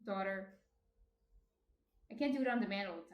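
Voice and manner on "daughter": Jersey accent. Shown as a demonstration. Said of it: "do some of my Jersey accent".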